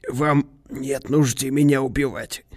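slow, composed, even delivery; cool, measured calm; imperturbable. A narrator's reading. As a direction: say it unmoved, taking your time. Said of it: "невозмутимо сказал он".

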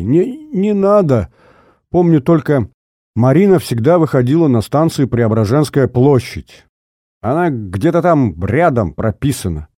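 a lightly voiced terrified old man; old man pleading with his tormentor; frightened pleading. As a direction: beg him not to. Nosov begs under threat.

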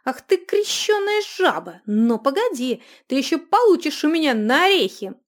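high loud insult; angry shout. Acted. Runika yells at the giggling dwarf in fury. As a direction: hurl the curse at him.

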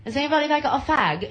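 British schoolkid asking. Retold or imitated. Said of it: "'Cause I went to British school".

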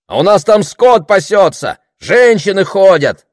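high, loud complaint; irritated. A narrator's reading. Heckler worried for cattle and women, irritated. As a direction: press the grievance on the speaker. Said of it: "продолжал раздражённый голос".

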